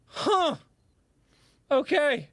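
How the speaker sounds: mock dazed acceptance; stunned acceptance. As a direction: let each word hang in disbelief. Retold reaction to veteran.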